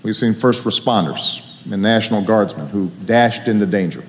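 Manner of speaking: sincere serious close. Real, not acted. President turns to the nation's hard days, softly sincere.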